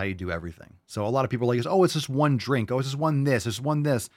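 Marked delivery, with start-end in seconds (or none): 1.7-4.1 higher-pitched mimicry of excuse-makers; mock dismissive. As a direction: brush it off like someone making excuses. Mimics people excusing treats.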